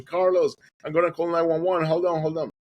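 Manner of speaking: high-pitched call to someone far away; retold calling out. Friend on the hilltop to swimmer, calling out. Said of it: "He started calling me".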